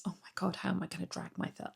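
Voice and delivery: normal talking voice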